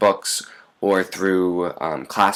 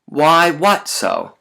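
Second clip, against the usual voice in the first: slow literal reading; 7 semitones higher, 3 dB louder, much slower than usual. Shown as a demonstration.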